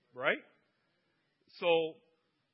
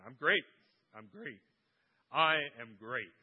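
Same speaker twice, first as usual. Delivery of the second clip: insistent Lorraine; 4 semitones lower, 8 dB louder than usual. Retold or imitated. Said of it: "Every time I ask her".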